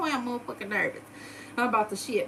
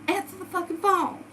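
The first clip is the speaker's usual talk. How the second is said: retold all-caps yelling, slow and higher; mock scream; 6 semitones higher, slower than usual. Imitating friends' all-caps texts as a high yell. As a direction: friends in group chat yelling, answer the phone. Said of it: "they're fucking screaming at me".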